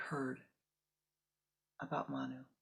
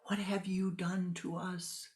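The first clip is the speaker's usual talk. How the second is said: slow, hissed accusation, higher pitch; reproachful parent; 4 semitones higher than usual. Acted. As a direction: whisper the blame at the daughter. Parents confront pregnant daughter.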